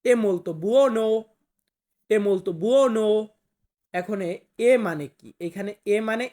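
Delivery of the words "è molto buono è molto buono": slow teaching read. Shown as a demonstration. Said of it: "তাহলে আমাকে বলতে হবে".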